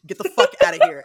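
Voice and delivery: loud, high, furious order; both vampires ordering Antoinette out, shouting; angry yell. Retold or imitated. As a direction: throw her out, shouting.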